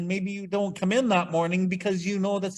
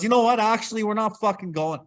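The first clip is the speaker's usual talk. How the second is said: higher, mildly indignant outburst; retold angry threat; 4 semitones higher than usual. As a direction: call the trip off in a huff. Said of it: "yelling out the window".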